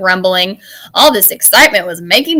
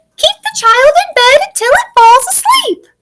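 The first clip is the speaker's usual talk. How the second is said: squeaked out way up high; 4 dB louder than usual. Narrator reading a monster's answer to Mister Z's question, in a squeaky Morgan voice. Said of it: "bounced and squeaked".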